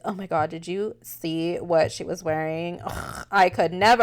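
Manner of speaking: mock disgust behind someone's back; catty gossip. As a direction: play a scandalized coworker dishing gossip. Acting coworkers gossiping behind her back.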